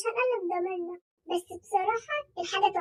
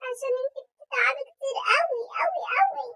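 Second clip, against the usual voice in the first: gushing flattery; 3 semitones higher than usual. Acted. Overdoing the flattery.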